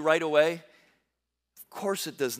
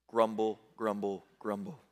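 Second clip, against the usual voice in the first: low, soft grumbling crowd; preacher voicing a grumbling crowd, low and sulky; mock grumble; 9 semitones lower, 6 dB quieter than usual. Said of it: "They grumble".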